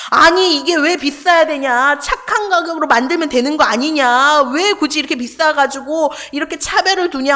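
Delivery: mildly indignant protest, quoting his angry post; retold indignation. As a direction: push the questions out as a retold complaint. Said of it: "너무 울분에 찬 거야". (울분에 찬 항의를 흉내 내듯)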